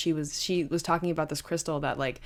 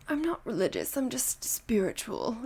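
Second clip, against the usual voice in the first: spiritual LA type; 2 semitones higher than usual. Retold or imitated. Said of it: "when they're like".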